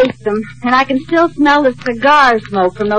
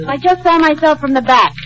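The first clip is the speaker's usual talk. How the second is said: laughing; faster than usual. Acted. Liz laughing at the mirror.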